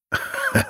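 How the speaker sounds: short high giggle; a quick amused titter. A narrator's reading. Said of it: "kichert jener". (kurzes Kichern)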